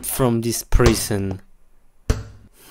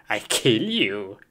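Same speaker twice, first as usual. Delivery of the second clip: mock anger; 5 semitones lower than usual. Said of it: "I'm so angry now".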